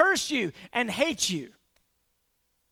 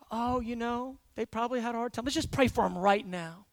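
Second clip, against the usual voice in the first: gentle reply; 2 semitones lower, 6 dB quieter than usual. Acted. Kind driver answers gently.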